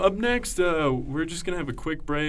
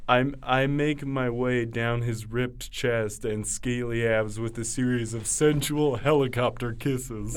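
mock dramatic reading; 3 semitones lower, 4 dB quieter than usual. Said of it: "An expert goes".

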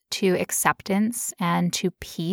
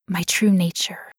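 whispered. Real, not acted. Soft reflective aside.

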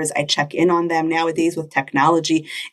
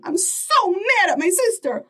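put-on mad kid; 12 semitones higher than usual. Child voiced, angry at sister.

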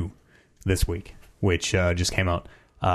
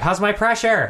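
imitating the therapist; 10 semitones higher than usual. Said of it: "they're like".

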